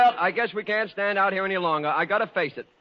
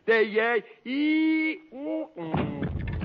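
fainting away; 7 semitones higher, much slower than usual. Acted. Fainting from the girls' swooning, trailing off. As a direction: voice rises and fades out. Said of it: "Mister Sinatra has fainted".

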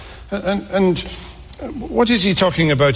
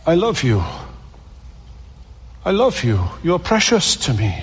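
tender. Acted. God voiced speaking to wanderers.

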